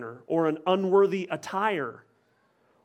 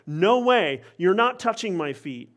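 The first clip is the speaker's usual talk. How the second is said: louder, raised, adamant; intense refusal; 3 semitones higher, 5 dB louder than usual. Retold or imitated. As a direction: slam the door on the idea. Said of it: "even more intense and emphatic".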